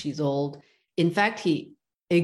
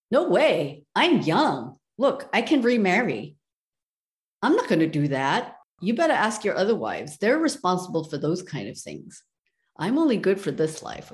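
louder, dismissive and a bit quick; flat refusal; 4 dB louder than usual. Acted. Youngest wife turning down her dying husband, loud and dismissive. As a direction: brush him off without a second thought.

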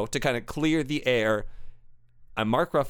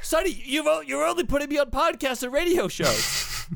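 high whiny complaint; whining; 11 semitones higher than usual. Acted. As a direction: whine at the agent. Whining to his agent.

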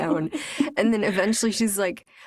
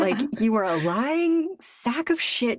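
mock angry; 4 semitones higher than usual. He orders her out of the tree, mock angry. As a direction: lean on each word in mock outrage. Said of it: "You seem really angry".

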